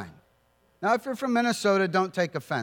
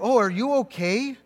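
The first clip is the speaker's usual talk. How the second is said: fussy aunt; 4 semitones higher than usual. Retold or imitated. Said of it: "Apparently my aunt got on the phone".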